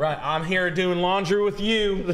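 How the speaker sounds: high loud slow character voice. Pretend. Mock owner character.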